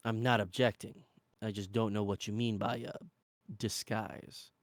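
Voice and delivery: reserved, slightly low character voice; lightly voiced companion. Companion unfamiliar with disguises, lightly voiced and reserved. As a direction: puzzle over it evenly, understated. Regerd answers in dialogue.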